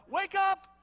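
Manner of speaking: rising high, loud frantic urging; panicked pleading. Acted. Scared disciples yelling at sleeping Jesus, frantic and high. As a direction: shake him awake in a panic, pitch climbing. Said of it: "you know".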